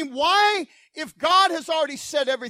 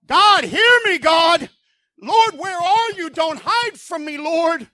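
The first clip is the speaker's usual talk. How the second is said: bold pleading prayer; 3 semitones higher, 3 dB louder than usual. Acted. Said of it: "Who talks to God like this".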